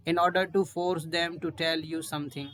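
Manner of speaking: very slow, word by word; slow dictation. Shown as a demonstration. Teacher finishing the definition, slow dictation. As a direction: read it slowly for students to write. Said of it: "reads the definition slowly".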